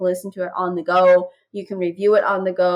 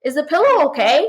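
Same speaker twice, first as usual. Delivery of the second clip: lightly imitated child, higher pitch; Avery; 6 semitones higher, 4 dB louder than usual. Daughter checking on mom and the pillow, higher child voice. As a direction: play a concerned kid, pitched up and a bit louder. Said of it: "she'd be like".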